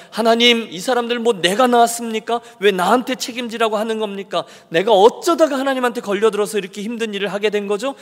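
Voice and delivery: exasperated protest. Acted. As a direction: vent like a man pushed too far. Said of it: "계속 항변해요".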